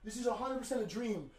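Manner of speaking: soft, hushed, dazed repetition; quietly overwhelmed; stunned disbelief. Real, not acted. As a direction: murmur it as if in a dream. Stunned by huge viewer count.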